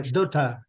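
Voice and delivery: "daughter" com final aberto, dóta, sem R. Shown as a demonstration. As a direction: diga "daughter" sem pronunciar o R. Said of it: "esse R não é pronunciado". (daughter britânico, dóta)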